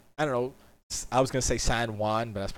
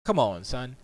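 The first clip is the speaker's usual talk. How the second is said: normal talking voice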